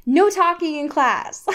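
spat out. Acted. Missus Smith scolds Bella for talking in class, spat out. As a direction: cut the pupils off sharply, hammed up. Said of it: "Missus Smith spat out at me".

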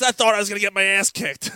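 high, loud, imitating laughing relief. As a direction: blurt it as if cracking up. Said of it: "And he starts laughing".

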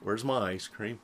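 imitating a small, quiet, let-down voice; disappointed child. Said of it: "five-year-old I'm disappointed look".

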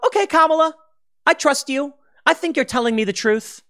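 hammed-up naive believer; gullible sucker. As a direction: play the trusting fool, overdone. Naive citizen trusting the politician.

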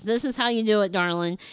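lightly imitated Southern gentleman; mild mock Southern accent, falling on darling. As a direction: show her how, with a hint of Southern accent. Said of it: "a big old Southern accent".

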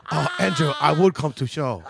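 put-on Japanese accent. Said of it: "talking in an accent".

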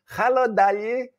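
put-on high-pitched Greek-accented English greeting; Gringlish accent. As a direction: imitate a Greek mum's slow, mangled English. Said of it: "we call it Gringlish, Greek and English mixed".

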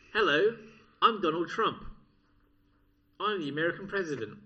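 lightly voiced, halting mock impression; Donald Trump. Comic's poor impression for an amused co-host, lightly voiced politician. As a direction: introduce yourself in a badly faked presidential voice. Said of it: "do you wanna hear my Donald Trump impression".

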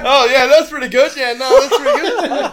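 high, loud, laughing through the words; laughing mock quote. Mocking a friend's Snapchat while laughing hard. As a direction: mimic him while cracking up. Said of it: "It's like".

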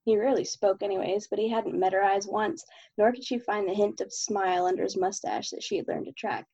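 steady, even novel reading; story narration. Acted. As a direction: read the chapter aloud evenly. Reads chapter of own novel.

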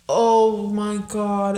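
slow, longing oh my God; drawn-out yearning for the food; craving moan. Real, not acted. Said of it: "I'm craving Raising Cane's so".

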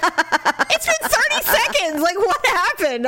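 high, slow, baffled mock voice; imitating puzzled husband. Husband puzzled at his wife's fury, high and drawn out. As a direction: stretch it out like a clueless husband. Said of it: "he's like".

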